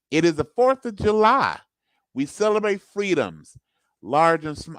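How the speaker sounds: rousing patriotic orator, pitch swooping up and falling; America voice. Acted. Host reads a Fourth of July honest ad in a best America voice. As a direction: declaim it in rhymed, punched phrases. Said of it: "do it in my best, uh, America voice".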